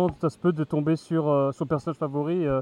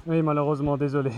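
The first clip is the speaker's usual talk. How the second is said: muffled inside a mask; through a face mask; 4 semitones lower, faster than usual. Real, not acted. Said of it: "tu as le masque sur toi".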